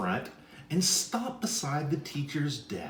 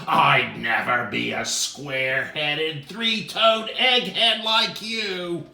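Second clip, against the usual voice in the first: louder insulting jab; angry retort; 3 semitones higher, 6 dB louder than usual. Acted. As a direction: spit it out in a temper. C insulting E angrily.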